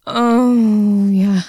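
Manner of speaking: loud pleasured moan. Acted. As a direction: let it out loud.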